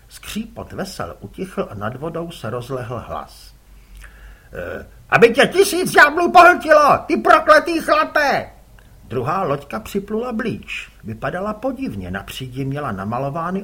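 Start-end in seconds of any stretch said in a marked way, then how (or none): 4.5-8.5 furious cursing. Acted. Rival fisherman curses Kuboš, furious yell. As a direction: hurl curses across the water.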